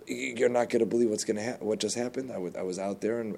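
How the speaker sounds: rushed, tripping over the words; breathless stammer. Retold or imitated. Man who fled the cow, stammering fast to the farmer. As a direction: blurt it out fast after running. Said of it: "completely out of breath".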